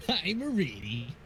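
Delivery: slack-jawed goofy character voice; dopey voice. Acted. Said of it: "that's the most dopey voice I have".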